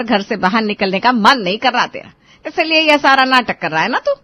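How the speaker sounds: nagging mother's voice, loud and sharp; scolding mother. Acted. Mother scolding her sleeping son, nagging loudly. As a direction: tear into a lazy son at dawn.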